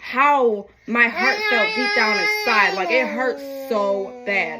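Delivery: slow, tearful telling of the hurt; slow, choked-up words about heartbreak; near tears. Real, not acted. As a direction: let the voice catch with real hurt. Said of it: "how hurt I felt".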